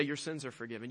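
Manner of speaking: soft reverent hush on "Your sins are forgiven"; hushed, awed words. Acted. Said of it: "not just anyone can come along and say".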